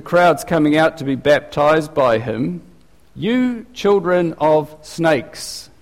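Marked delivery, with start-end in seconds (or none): 3.1-5.7 slow, drawn-out mock rebuke; lightly hammed-up stern prophet; fiery prophet rebuke. Preacher voicing John rebuking the crowd, slow and stern. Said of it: "I've never said anything like that".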